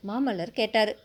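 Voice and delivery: plain reading voice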